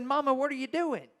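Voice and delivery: protest, stunned at what she just said; indignant disbelief. Retold or imitated. Confronting mom who mocks him.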